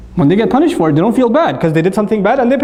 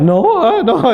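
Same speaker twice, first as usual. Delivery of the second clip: put-on a touch high, flustered child's no; flustered kid; 7 semitones higher, slower than usual. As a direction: stammer it like a caught child. Child caught lying again.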